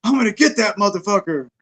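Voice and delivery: retold pissed-off rant. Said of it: "He was pissed".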